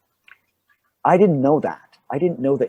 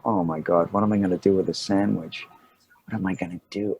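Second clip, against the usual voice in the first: low, increasingly soft fretting to oneself; muted dismay; 4 semitones lower, 4 dB quieter than usual. Retold or imitated. Actor with nowhere to leave his sandwich, muted dismay. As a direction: play quiet mock despair.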